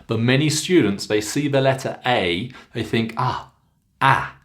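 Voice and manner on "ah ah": short front "Ah", as in cat; short a error. Shown as a demonstration. Teacher shows what students think, short a sound. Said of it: "and they say father".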